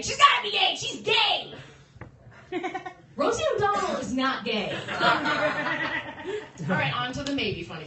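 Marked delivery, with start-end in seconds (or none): 0.0-1.5 high, loud, certain exclamation; excited insistence. Retold or imitated. Comic declaring every crush gay, high excited cry. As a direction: blurt it out like a sudden realization. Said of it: "Every woman I wanna bang".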